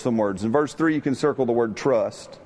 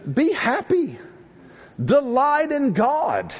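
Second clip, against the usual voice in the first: exhortation; 12 semitones higher, slower than usual. Real, not acted. Preacher exhorts congregation.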